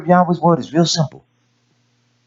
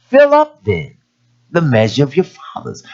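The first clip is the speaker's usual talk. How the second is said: challenging cry. Retold or imitated. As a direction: fling it out as a challenge. Quoting Yahshua's challenge.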